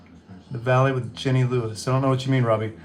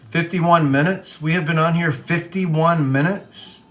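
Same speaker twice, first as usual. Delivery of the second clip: higher, slow, incredulous questions; real surprise; 4 semitones higher than usual. Real, not acted. Streamer sees how long they have been live, real surprise. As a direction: draw it out in disbelief, pitch lifted.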